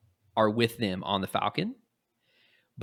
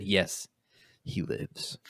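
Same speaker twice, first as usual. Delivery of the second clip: hushed, sinister whisper dropping away; dramatic whisper; 3 semitones lower, 6 dB quieter, much slower than usual. Retold or imitated. Luke reveals the Emperor lives, dramatic whisper. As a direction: breathe it like a dark secret. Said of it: "Very dramatic".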